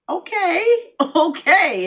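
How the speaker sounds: high, loud laughing "okay, okay". Retold or imitated. Stranger reacting with high laughing surprise. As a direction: laugh through it, delighted. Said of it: "they'd be like".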